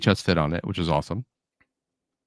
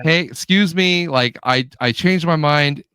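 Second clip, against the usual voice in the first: polite, higher-pitched pretend request; nicely asking; 5 semitones higher, slower than usual. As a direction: show how to ask nicely, drawn out. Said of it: "nicely asked".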